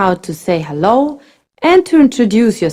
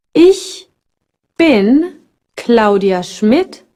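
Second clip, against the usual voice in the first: slow model; slower than usual. Shown as a demonstration.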